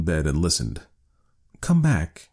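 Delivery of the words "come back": put-on high, gentle old man's coaxing; tender. A narrator's reading. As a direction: call a wife back to bed tenderly. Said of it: "he said tenderly".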